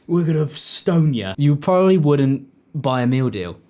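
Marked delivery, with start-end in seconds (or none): 0.0-1.3 raised-pitch mock threat; threatening shop staff. Supermarket staff threatening a customer who won't buy, mock aggression. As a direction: play an absurdly aggressive shop worker, slowing at the end. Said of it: "imagine if you walked into Tesco and they went".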